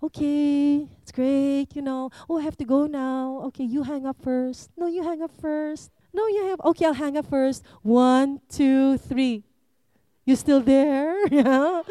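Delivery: put-on sweet, giggly teen on the phone; giggly late night call. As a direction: play a lovesick teenager saying goodnight. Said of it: "one of the funniest things that we used to do when you had a boyfriend".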